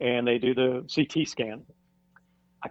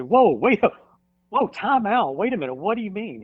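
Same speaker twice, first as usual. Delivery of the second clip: higher-pitched, re-enacted disbelief; taken aback, replaying the shock; retold startled protest; 8 semitones higher, 4 dB louder than usual. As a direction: call a halt in alarm, voice jumping up. Stunned reply to doctor's bad news.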